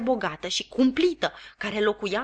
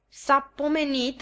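slow, mild and courteous; polite; 6 semitones higher, slower than usual. Acted. Joe politely answering his sharp wife. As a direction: say it gently, politely. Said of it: "remarcă Joe politicos".

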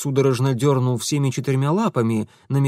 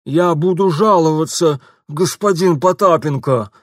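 louder, higher lisping complaint of a beaten shopkeeper; mumbling shopkeeper; 4 semitones higher, 7 dB louder than usual. A narrator's reading. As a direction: complain through a swollen cheek. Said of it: "прошамкал лавочник". (обиженный лавочник шамкает)

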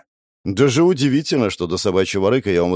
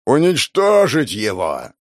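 booming boss command; 3 semitones higher, slower than usual. Acted. Boss orders attack.

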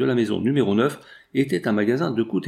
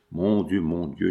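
moaning; 4 semitones lower, slower than usual. Acted. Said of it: "gémit la malade".

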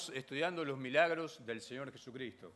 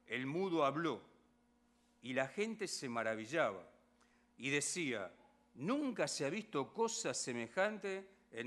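measured Bible reading to the congregation; scripture reading; 2 semitones higher than usual. Acted. Reads the Gospel passage aloud.

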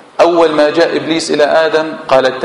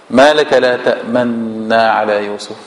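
calm the worried father gently; a slow hushed reassurance; soothing calm; 6 semitones lower than usual. Shown as a demonstration. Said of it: "من باب التهدئة".

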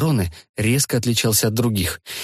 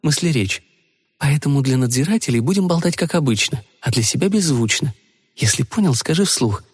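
a hint of a young woman instructing; slightly higher female voice; lightly voiced young woman; 3 semitones higher than usual. Rita's inner voice.

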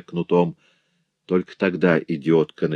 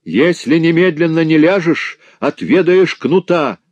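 slow, much higher and louder threat; husband threatening the old woman with the whip, roaring slowly; terrible shout; 10 semitones higher, 6 dB louder than usual. A narrator's reading. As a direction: roar a menacing threat, dragging it out. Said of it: "закричал страшным голосом".

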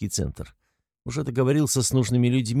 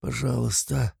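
plaintive plea; 4 semitones higher, 4 dB quieter than usual. A narrator's reading. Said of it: "просит жалобным тоном".

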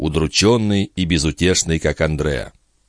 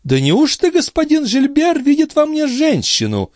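high, scornful mock astonishment; haughty surprise. A narrator's reading. Andrea mocks Gilbert, haughtily astonished. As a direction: feign shock, looking down on him. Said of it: "удивилась высокомерная девушка".

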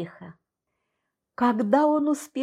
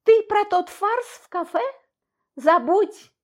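much higher, nervously laughing it off; 11 semitones higher, 3 dB louder than usual. A narrator's reading. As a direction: laugh it away, rattled. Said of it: "Я нервно рассмеялась".

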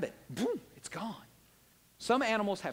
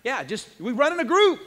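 louder, higher, laughing it out; laughing restart; 6 semitones higher, 9 dB louder than usual. Shown as a demonstration. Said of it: "am I messing you up, April?".

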